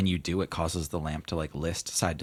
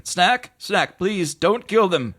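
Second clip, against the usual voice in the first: genie voice; 10 dB louder, slower than usual. Acted. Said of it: "Genie ... say".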